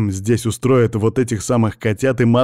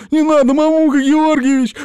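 very high, loud pleading scream; terrified begging; 7 dB louder than usual. A narrator's reading. Captive in the pit begging the boss not to light the match. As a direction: beg for your life, screaming. Captive begs for his life.

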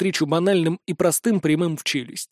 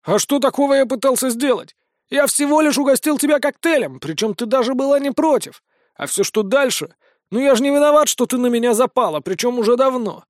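smug mocking; 6 semitones higher than usual. Vincent smug, mocking denial.

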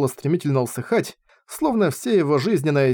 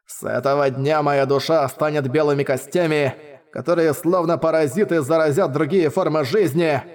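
mad laughter. Acted. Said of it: "Безумный хохот старика".

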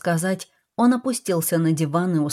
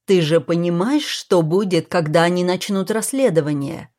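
a touch of irritation; 3 dB louder than usual. Acted. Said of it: "с нотками раздражения в голосе".

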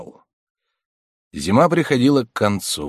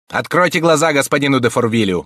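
higher, louder, sharp command; sharply; 6 semitones higher, 6 dB louder than usual. A narrator's reading. Abbé sharply ordering her to tell de Fourville. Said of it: "проговорил он резко".

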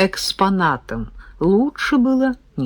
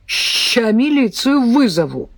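put-on threatening old man; 5 semitones higher than usual. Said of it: "пообещал Дёмин".

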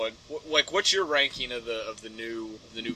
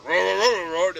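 second dog; 2 semitones higher, 4 dB louder than usual. Acted. Imitating another dog at adoption, loud roar. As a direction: answer as another kennel dog. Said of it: "and then another one goes".

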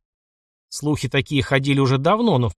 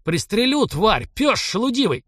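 higher, slow, strained voice; enraged threat; 8 semitones higher than usual. Acted. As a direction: spit the threat out in rage. Enraged officer threatens peasant. (ротмистр в ярости угрожает парню, выше и медленно)

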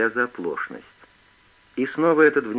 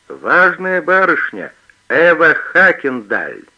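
triumphant; 4 semitones higher, 9 dB louder, slower than usual. A narrator's reading. Thief triumphs over scared girl.

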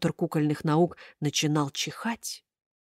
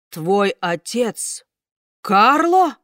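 slow then loud startled question; 2 semitones higher, 4 dB louder, much slower than usual. A narrator's reading. Karabas startled hears of Carlo, loud surprise. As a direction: gasp out the name.

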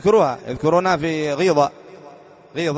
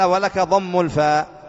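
slow, deliberate quoted rule; reading the grammar text; 3 semitones higher, 3 dB louder, much slower than usual. Shown as a demonstration. Teacher reading the grammar book's rule slowly. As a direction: read the rule out slowly to the class. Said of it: "اللغة الثالثة قال".

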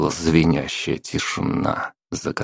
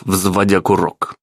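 ordinary delivery, nothing marked

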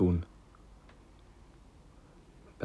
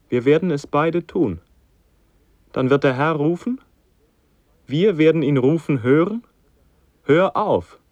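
rising ecstatic cry; 5 semitones higher, 4 dB louder than usual. Acted. Son in rising religious ecstasy.

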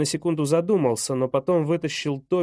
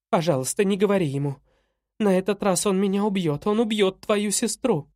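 higher-pitched, urgent begging; frightened pleading; 4 semitones higher than usual. Acted. Mother begs son to keep the secret, pleading in fear.

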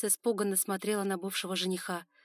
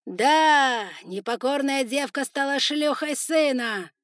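loud, high, slow gloating; loud proclamation; 7 semitones higher, 11 dB louder, slower than usual. Acted. Spider lord proclaiming to his warriors, loud and gloating. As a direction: announce it to all. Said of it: "громким голосом констатировал".

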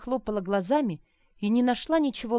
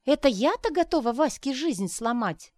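high, louder outraged question; indignant disbelief; 7 semitones higher, 4 dB louder than usual. Acted. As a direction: bristle at the accusation. Arina indignant, voiced high.

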